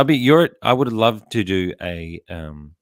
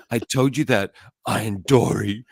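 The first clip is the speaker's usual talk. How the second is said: mimicked pointed teasing; 3 dB louder than usual. Imitating Mila teasing dad, mock pointed jab. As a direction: imitate her rubbing it in. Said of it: "she says it like that".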